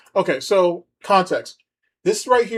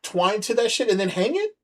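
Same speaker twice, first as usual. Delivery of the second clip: exasperated rant; 5 semitones higher than usual. Real, not acted. Ranting at clip about hanging pictures.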